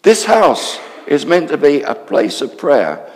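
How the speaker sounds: loud, slow, angry temple rebuke; shouting. Acted. Jesus shouting at the money changers, loud and slow. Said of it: "he started shouting".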